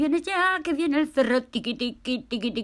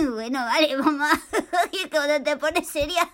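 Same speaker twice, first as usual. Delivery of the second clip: giggling; 4 semitones higher than usual. Acted. Paco se ríe de la mamá.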